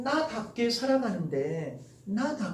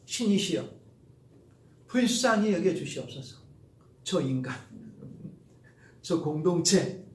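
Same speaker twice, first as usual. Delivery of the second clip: gentle prayer; 3 semitones lower, 5 dB quieter than usual. Shown as a demonstration. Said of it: "이렇게 하는 거예요".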